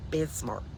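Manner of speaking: "Bismarck" softly, with the hidden C clicked at the end; careful "Bismarck", final C popped; hidden C sounded. Shown as a demonstration. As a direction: finish "Bismarck" on a separate hard K. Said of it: "there's a hidden C in there".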